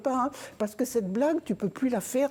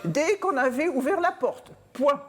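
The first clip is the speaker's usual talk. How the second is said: dictating; 7 semitones higher than usual. Retold or imitated. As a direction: read it out like a school dictation. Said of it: "il commence la dictée".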